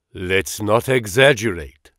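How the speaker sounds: put-on a light German accent, measured and polite; an old German scholar gently correcting. Engels waves off Watson's praise in a light German accent. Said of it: "in professional English with a German accent".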